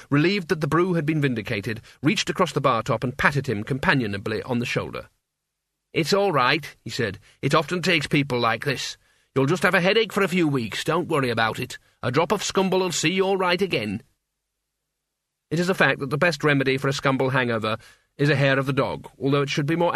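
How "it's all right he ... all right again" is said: reassuring landlord. Acted.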